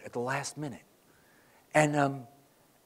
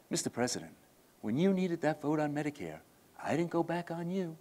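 quiet reproach; 16 dB quieter than usual. Retold or imitated. Long pause, Long's quiet reproach.

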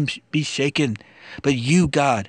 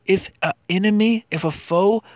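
impassioned plea; 5 semitones higher than usual. Acted. Anguished lament in psalm reading.

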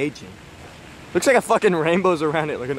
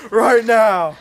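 slow mock yell; 3 dB louder, slower than usual. Neighbour yelling slowly.

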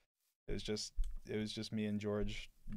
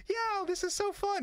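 high, slow, loud kitten glee; voicing the kitten; 6 dB louder, slower than usual. Owner voices the playful kitten, high and loud. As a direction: play the happy kitten, high and drawn out. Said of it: "he's like".

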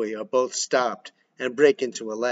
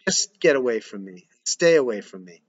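cutting off; 2 semitones lower than usual. Acted. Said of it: "cutting him off".

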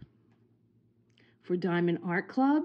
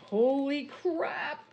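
shocked exclamation; 9 semitones higher, slower than usual. Real, not acted. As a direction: blurt it out in real shock. Unboxing reveal, shocked.

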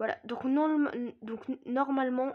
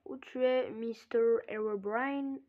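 lightly put-on English accent, a bit slow; a hint of a terrible English accent; bad English accent; slower than usual. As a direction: call out in a clumsy mock English accent. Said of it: "J'ai un accent anglais de merde".

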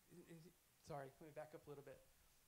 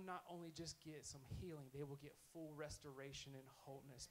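gentle preaching. Real, not acted. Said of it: "here's me preaching".

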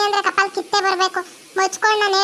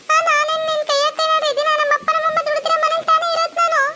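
higher, hurt-sounding complaint, put on for show; fake sentimental plea; 4 semitones higher than usual. Sister fakes hurt to her brother, higher and pleading. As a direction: play the wronged little sister to win him over. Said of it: "sentiment dialogue ಹೊಡಿಬೇಕು".

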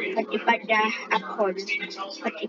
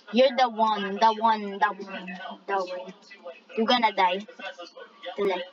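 lightly lowered mock threat; mock menacing voice; 4 semitones lower than usual. Gamer taunting a rival racer, mock menacing voice. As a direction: play a hammy villain. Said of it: "I changed my voice".

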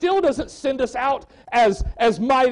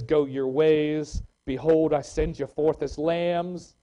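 scripture reading; 6 semitones lower, slower than usual. Acted. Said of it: "Luke ten three says".

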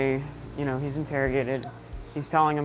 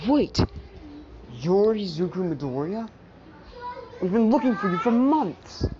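excited calling out; 6 semitones higher than usual. Retold or imitated. Someone stopping Midoriya as he walks away, excited high call. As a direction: stop him with an eager, urgent shout. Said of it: "he's like".

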